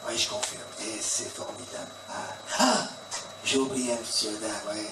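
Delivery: Colombo impression. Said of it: "c'est Colombo".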